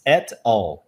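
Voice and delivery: "at all" with a clear t, two words; separate words. Shown as a demonstration. Teacher isolating two little words for learners, separated. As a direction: keep the t of "at" crisp before "all". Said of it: "Eu não falei assim".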